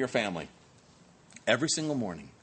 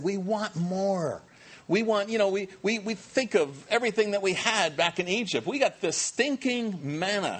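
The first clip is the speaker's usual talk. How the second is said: mock grumbling Israelites; 4 semitones higher than usual. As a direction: moan like spoiled wanderers. Israelites grumbling about manna.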